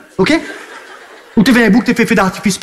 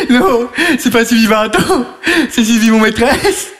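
laughing while talking; slower than usual. Real, not acted. Laughing while correcting caller.

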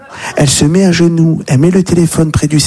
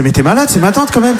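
incredulous protest, pitch climbing high; mock outrage; 6 semitones higher than usual. Nephew answering the rabbi's payment offer at the funeral, mock outraged.

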